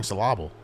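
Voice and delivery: syllable said as suh-LAH-bull; joke mispronunciation. Shown as a demonstration. Cohost sneaking in an old joke, deadpan misstressed. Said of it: "put the wrong emphasis".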